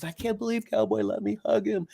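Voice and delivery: high, thrilled retelling of his amazement; amazed delight. Retold or imitated. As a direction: lightly voice his happy disbelief. Jeremy quoted, thrilled by horse.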